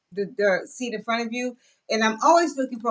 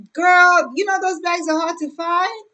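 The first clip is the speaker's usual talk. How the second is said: higher, louder sassy friend voice; lightly voiced friend, higher and louder; voicing her friend; 7 semitones higher, 6 dB louder than usual. Friend telling her the bags are rare, sassy and high.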